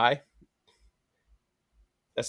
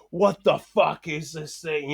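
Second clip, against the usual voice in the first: mock freaked out; 4 semitones higher, much slower than usual. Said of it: "losing his shit".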